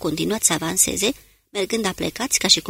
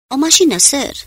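higher and louder sudden alert; alarmed call; 7 semitones higher, 7 dB louder than usual. Acted. A sailor warns Marshall of a car, alarmed. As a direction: warn the officer at once.

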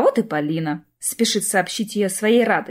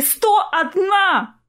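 high, slow, drawn-out wail; near hysterics; 10 semitones higher, 3 dB louder, much slower than usual. A narrator's reading. Sister near hysterics to Clara, high drawn wail. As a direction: wail the number, near tears. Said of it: "близка к истерике".

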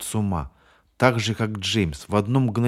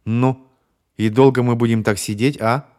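sharp, angry and a little louder; angry question; 3 semitones higher, 5 dB louder than usual. Acted. Bonnie snaps at the silent room, angry. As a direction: snap at the others to break the silence. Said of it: "она зло спросила".

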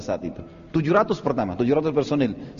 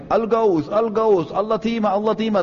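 crying out; 5 semitones higher than usual. Retold or imitated. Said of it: "Teriak-teriak lagi".

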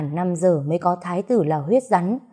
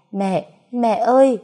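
loud, slow anguished wail for mother; grief-stricken scream; wailing cry; 4 semitones higher, 4 dB louder, slower than usual. Acted. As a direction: cry out for her as she dies. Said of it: "Tôi gào lên".

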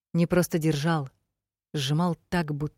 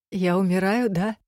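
a thin, pleading higher moan; plaintive moan; 4 semitones higher, 4 dB louder than usual. Acted. Wounded Ned asks the heroine if he's dying, plaintive moan. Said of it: "жалобно простонал Нед".

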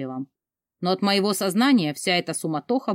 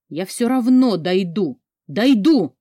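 defiant cry; 5 dB louder, slower than usual. Acted.

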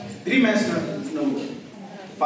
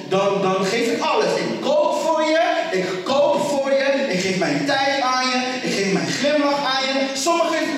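preaching. Acted. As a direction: preach it phrase by phrase, building in pitch. Preaches with rising intensity.

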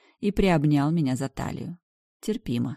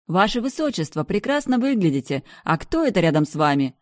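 higher, gushing courtier; fawning guest voice; 5 semitones higher, 4 dB louder than usual. Acted. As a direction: flatter the king with a lifted voice. Fawning guest greets the king.

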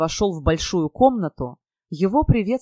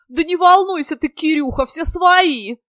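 much higher, loud, jovial party shout; boisterous encouragement; 10 semitones higher, 6 dB louder than usual. Acted. Durilov cheers on the nervous Kirill, loud and jovial. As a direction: cheer him on like a rowdy friend. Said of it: "подбодрил его Дурилов".

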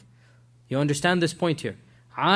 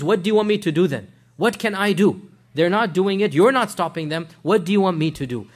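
exasperated retold plea, a bit louder; irritated; 2 semitones higher, 4 dB louder than usual. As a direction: voice someone at the end of their patience. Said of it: "he just comes irritated".

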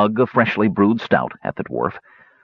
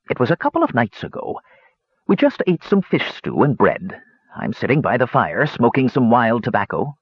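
put-on old dwarf yarn-spinner, pitched up; old dwarf hermit, storytelling; 5 semitones higher than usual. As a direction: tell the tale as a rustic old hermit.

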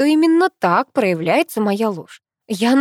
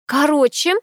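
mildly grand opening, pitched up; solemn; 8 semitones higher, 4 dB louder than usual. A narrator's reading. Sister begins her pitch to Миша, solemn. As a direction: announce it with ceremony. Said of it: "торжественно начала сестра".

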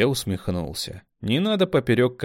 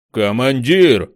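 slow, louder reproach; reproachful; 3 semitones higher, 9 dB louder, slower than usual. A narrator's reading. Smart one reproaching commander, loud slow. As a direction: call out reproachfully. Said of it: "укоризненно вскинулся умник".

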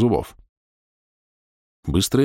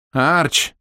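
raised voice; 8 semitones higher than usual. Acted. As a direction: raise the voice, calling out. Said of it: "повысил голос Маус".

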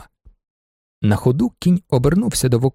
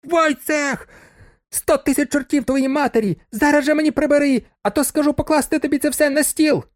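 high, shouted scolding; shouting down the corridor; 11 semitones higher than usual. Acted. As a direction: yell it at the stable boy down the hall. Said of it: "в коридорі закричав".

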